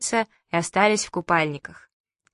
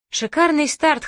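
laughing; 9 semitones higher, 4 dB louder than usual. A narrator's reading. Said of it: "хохотал папа".

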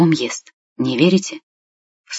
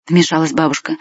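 ordinary delivery

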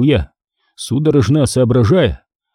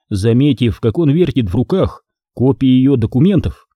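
usual speaking voice

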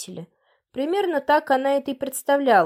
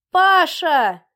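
loud call across the yard, higher; 6 semitones higher, 7 dB louder than usual. Acted. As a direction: shout for her son to come. Mother calling son from garden.

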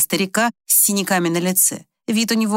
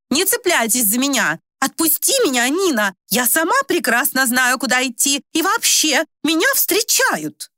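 high, commanding and cross; an old lady snapping orders; imperious, angry; 7 semitones higher than usual. Acted. Old lady angrily ordering her daughter to let go, imperious. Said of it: "властный и явно рассерженный".

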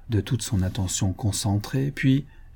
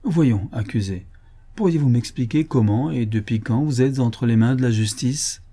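engaging tone. Acted. President coaxing the accused to explain himself, inviting. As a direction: draw him out gently. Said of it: "d'une voix engageante".

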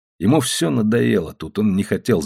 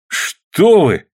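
startled, higher and louder question; surprised; 8 semitones higher, 5 dB louder than usual. A narrator's reading. Ilya to the policemen seizing him, surprised and louder. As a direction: caught off guard by the police grabbing him. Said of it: "удивлённо сказал Илья".

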